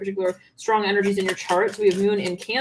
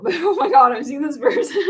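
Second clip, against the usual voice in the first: giggling through the words; cracking up at what she sees; laughing; 9 semitones higher, 5 dB louder than usual. Real, not acted. The reader cracks up at a vision, laughing.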